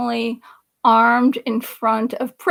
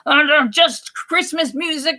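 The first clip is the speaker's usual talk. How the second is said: mock scolding; 3 semitones higher than usual. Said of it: "then she's screaming at me".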